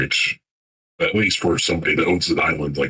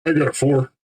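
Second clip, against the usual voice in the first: proud, raised voice; excited; 8 semitones higher than usual. Real, not acted. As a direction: announce the roll with glee. Player reports strong roll.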